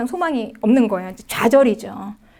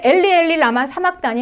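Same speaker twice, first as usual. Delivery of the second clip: cry out; 4 semitones higher than usual. Acted. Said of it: "예수께서 크게 소리질러 이르시되".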